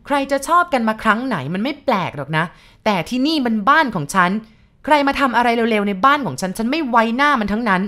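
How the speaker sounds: shrill-free but fierce, loud and high rebuke; relentless angry wife. Acted. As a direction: hammer every word, giving no ground. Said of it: "พูดอย่างไม่ลดละ".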